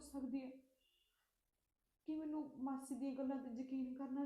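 soft, hushed thinking aloud to herself; quiet inner thoughts. Acted. Girl brooding alone over aunt's warning, quiet inner monologue. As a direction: muse quietly, torn and unsure.

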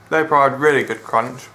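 talking through a mouthful of food; chewing while talking; mouth full. Real, not acted. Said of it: "Sorry for talking with my mouth full".

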